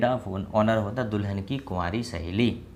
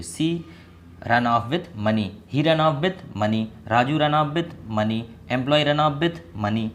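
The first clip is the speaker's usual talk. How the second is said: slow model sentences; 2 semitones higher, much slower than usual. Shown as a demonstration. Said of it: "जो आप पढ़ोगे सीधा का सीधा बोल दोगे".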